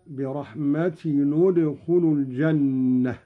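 "برحمة" joined to the next word as "bi-rahmatinu-dkhulu"; damma on tanween. Shown as a demonstration. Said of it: "بضم أولى الساكنين، وهو تنوين التاء".

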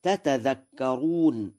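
"تتذكرون" with two separate t syllables; both ta sounds clear in "تتذكرون"; original two-ta form. Shown as a demonstration. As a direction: say "تتذكرون" as ta-ta-dhakkaroon, single dh. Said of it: "لأن الأصل".

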